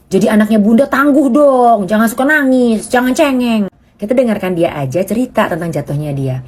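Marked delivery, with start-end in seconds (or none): 0.1-3.7 stern parent. Retold or imitated. Parent telling child be tough.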